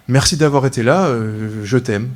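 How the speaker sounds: whisper-close declaration; tender. Retold or imitated. Tender confession at 4am. (déclaration douce et sincère)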